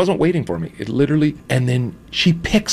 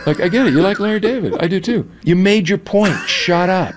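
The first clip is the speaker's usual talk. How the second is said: mock telling off; 6 semitones higher than usual. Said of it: "and then I was like".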